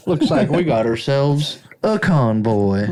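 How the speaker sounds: slow drawling trucker on the CB; lightly voiced trucker on the radio. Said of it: "You have a great voice for that".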